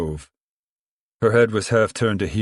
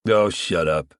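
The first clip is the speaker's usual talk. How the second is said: a mild, impatient snap; irritated outburst; 3 semitones lower, slower than usual. Acted. Pa cuts off Uncle John's talk of sin, mild irritated outburst. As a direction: cut him off with mild irritation. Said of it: "Pa cried".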